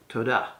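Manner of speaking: todah, leaning on the final DAH; stress on second syllable. Shown as a demonstration. Teacher repeats thank you in Hebrew, todah stressed on its second syllable. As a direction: put the accent at the end of todah. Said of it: "normally would accent the second syllable".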